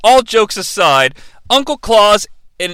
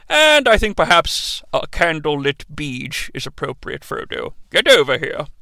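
a hint of a weary old wizard; lightly voiced old man; 3 semitones lower than usual. Old man asks Frodo for favours, lightly voiced. Retelling as old Gandalf figure.

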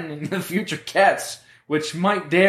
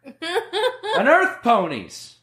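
eagerly laughing; 10 semitones higher, much slower than usual. Acted. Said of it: "Lenny said eagerly".

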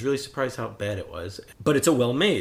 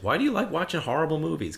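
a touch higher, quick querying; lightly voiced daughter; 5 semitones higher, faster than usual. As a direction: lightly imitate a puzzled daughter's question. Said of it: "My daughter, uh, I'm not making fun of her, she goes".

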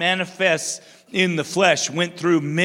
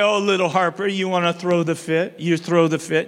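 put-on cooing to toddler. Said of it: "I say".

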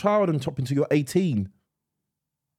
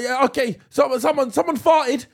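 put-on sheepish kid voice; 11 semitones higher, 4 dB louder than usual. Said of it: "he's like".

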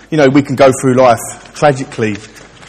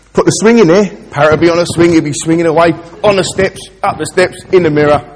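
higher, louder salesman pitch; eager salesman; 4 semitones higher, 5 dB louder than usual. Retold or imitated. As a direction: sell the swing with gusto. Shopkeeper pitches the swing.

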